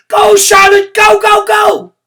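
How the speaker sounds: very high, loud cheer; cheering shout. Acted. Room nine cheering Gracie on, very loud. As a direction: cheer her on at full voice. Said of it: "shouted room nine".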